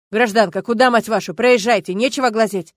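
loud, rough order to move along; gruff militiaman. Acted. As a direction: bark her away from the crash scene. Милиционер гонит Любу от места ДТП. (громкий грубый окрик милиционера)

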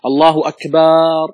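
"أكبر" said slowly, drawing out its ba toward "أكبار"; slow demo stretching the ba of "أكبر"; wrong long ba. Shown as a demonstration. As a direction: show the forbidden long ba in "أكبر". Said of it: "عدم مد الباء في أكبر".

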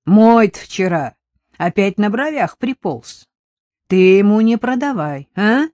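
деревенская тётка, жалуется и просит, громче; сетуя на пьющего мужа; жалующаяся тётка. Acted. (тётка жалуется продавщице на мужа)

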